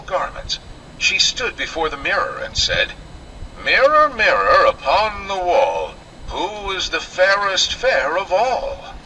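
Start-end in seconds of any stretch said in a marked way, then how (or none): 3.6-8.9 wicked queen. Acted. Queen asks her mirror again.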